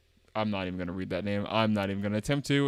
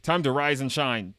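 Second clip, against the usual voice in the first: louder, lightly acted wake-up voice; character wake-up call; 3 semitones higher, 5 dB louder than usual. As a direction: rouse a sleepyhead. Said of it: "I'm giving everybody a voice".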